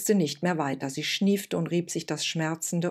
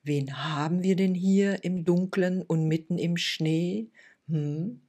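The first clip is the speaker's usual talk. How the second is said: put-on deep warm old woman. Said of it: "mit einer tiefen und warmen Stimme".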